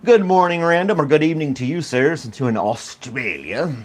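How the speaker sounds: playful attempt at an Australian accent; put-on accent. Greeting a viewer in Australia, mock Australian accent. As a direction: slip into a put-on Australian accent, drawing out the last words. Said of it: "I don't know why I did that accent".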